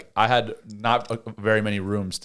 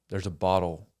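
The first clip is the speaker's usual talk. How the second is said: put-on softer, lower reluctant kid; grudging confession; 4 semitones lower, 7 dB quieter than usual. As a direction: give it up like it pains you.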